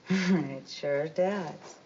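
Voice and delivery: slow, drawn-out answer after a laugh; chuckle, then stretch the words out; amused chuckle. Acted. Amused witness recognises the joke.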